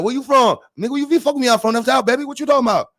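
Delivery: high, fast-running Southern country voice; country Southern accent. Acted. Man claiming the South when asked, country Southern accent. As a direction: slur it together like a country boy. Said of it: "do my country shit".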